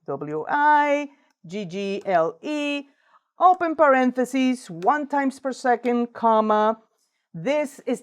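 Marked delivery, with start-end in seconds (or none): 0.1-6.8 dictating. Shown as a demonstration. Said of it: "type the word wiggle".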